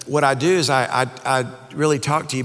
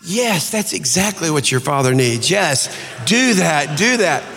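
eager mother; 3 semitones higher, 4 dB louder, slower than usual. Retold or imitated. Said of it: "She goes".

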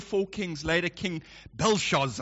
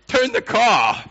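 put-on upset little boy; 5 semitones higher, 8 dB louder, slower than usual. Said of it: "he's getting emotional".

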